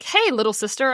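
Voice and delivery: mock sibling greeting. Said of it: "If my brother walked up to me and was like".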